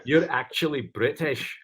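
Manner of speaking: Scottish accent. Shown as a demonstration. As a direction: read the question in a hammed-up Scottish accent. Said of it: "I'll follow it up with my Scottish".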